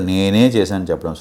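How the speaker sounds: నేనే stretched and stressed; emphatic, lengthened నేనే. Shown as a demonstration. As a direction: put the weight on నేనే, let the rest drop. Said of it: "So that is emphasizing".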